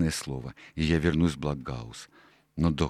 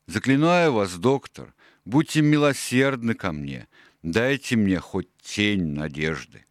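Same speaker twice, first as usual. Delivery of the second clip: desperate plea, a little higher; pleading, voice trembling; 4 semitones higher than usual. Acted. Silver begs the doctor for mercy, trembling plea. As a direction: beg the doctor for a shred of hope. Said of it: "голос дрожал".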